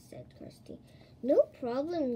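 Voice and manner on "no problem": loud, ready declaration; punched-out, emphatic assurance; confident declaration. A narrator's reading. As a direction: declare it boldly. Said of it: "Gregory declared".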